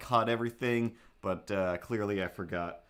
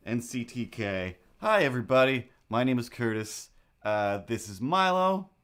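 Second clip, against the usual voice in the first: a bright, much louder mock intro for the camera; imitating Pat; 3 semitones higher, 5 dB louder than usual. Friend greeting the viewers, hammed-up and loud. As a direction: ham up Pat's loud, cheery hello. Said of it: "As Pat is also saying".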